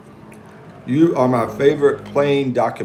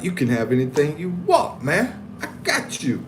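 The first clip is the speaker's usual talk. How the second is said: mock homeboy voice; 5 semitones higher than usual. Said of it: "But he didn't talk like that".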